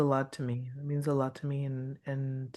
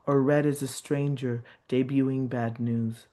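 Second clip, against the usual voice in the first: measured, rhythmic reading of a poem; a poet reading her own work to an audience; poetry reading. Acted. Poet reads her piece aloud.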